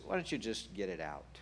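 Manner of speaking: low, softened coaxing; soft and low, kindly prompting; gentle invitation. Acted. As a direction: gently invite them to let it out. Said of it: "the stage of the gentle whisper".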